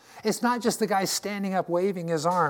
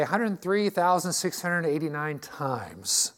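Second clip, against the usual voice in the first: slow; slower than usual. Acted. Preacher marvelling at statistic.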